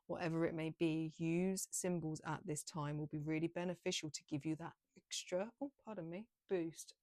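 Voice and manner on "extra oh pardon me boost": voice cutting out. Real, not acted. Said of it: "I just completely lost my voice".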